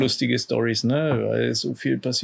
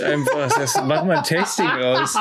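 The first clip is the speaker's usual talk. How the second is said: laughing. Real, not acted. Laughs at battery-licking idea.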